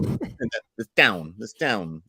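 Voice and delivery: imitated Midwestern bend on "down"; bent Midwestern vowels. Co-host showing the vowel bend, Midwestern "down". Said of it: "bending on those I's and O's".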